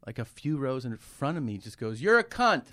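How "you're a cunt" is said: high, loud mock blurt; imitated outburst yell. Kid with Tourette's in church, imitated yelled outburst. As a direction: yelp it out suddenly, imitating an involuntary outburst. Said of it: "he's just screaming shit".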